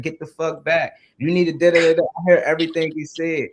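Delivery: loud, pushy coaching orders; hard coach. Retold or imitated. Recalling hard coaches' orders on the field, mock coach bark. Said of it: "I done dealt with hard coaches".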